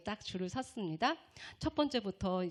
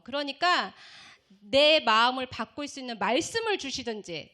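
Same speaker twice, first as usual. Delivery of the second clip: bargaining prayer; 4 dB louder than usual. Retold or imitated. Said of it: "손에 들고 기도했어요".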